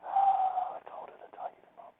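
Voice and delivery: high, slow put-upon moan; fed-up parent whining about toys; mock exasperated whine.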